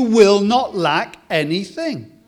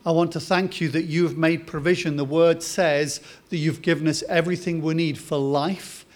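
prayer. Acted. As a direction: pray it gently to God. Pastor leads closing prayer.

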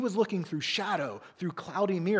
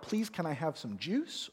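softer, sweet humble asking; humble child asking nicely; polite request; 5 dB quieter than usual. Retold or imitated. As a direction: ask gently and humbly. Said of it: "does it sound more like".

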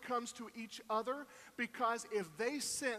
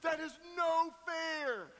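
put-on high, slow childish protest; whiny little girl; 5 semitones higher than usual. Daughter protesting bedtime to dad, high whiny complaint. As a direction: whine like an eight-year-old denied her turn. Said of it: "she was like".

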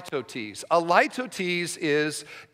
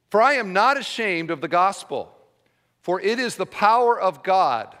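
raised, measured Bible reading voice; scripture reading; 2 semitones higher than usual. Acted. Pastor reading Romans to his church, raised and measured. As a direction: proclaim the verse to the congregation. Reads scripture aloud to congregation.

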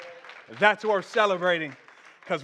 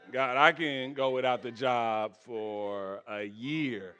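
much lower, softer, slow pleading; low bargaining with God; 11 semitones lower, 7 dB quieter, slower than usual. Acted. Preacher voicing himself, quietly bargaining with God.

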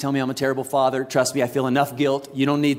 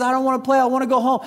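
high-pitched protest, lightly tearful; imitated crying son; 7 semitones higher, faster than usual. Son refusing another game to dad, imitated tearful plea. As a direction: plead like an upset little boy, mildly acted. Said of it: "He's crying".

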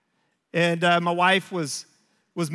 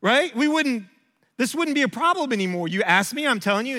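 irritated, pushy lecture to his son; impatient dad pressing his advice; frustrated dad; 4 semitones higher than usual. Retold or imitated. Dad pressing advice on his son, irritated. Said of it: "so that frustrated me".

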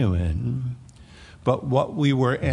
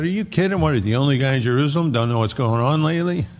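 incredulous disciples; faster than usual. Acted. Two travellers scoffing at the stranger Jesus, amazed.

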